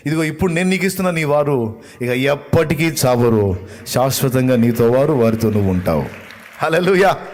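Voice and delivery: loud, fervent sermon climax; loud preaching build to hallelujah; full-force preaching. Acted. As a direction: preach it out to the congregation.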